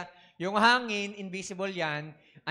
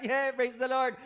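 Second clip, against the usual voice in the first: higher, lively mock cheer of praise; 5 semitones higher, slower than usual. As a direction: cheer like a fair-weather believer. Mock cheer in good times. (masiglang pabirong papuri)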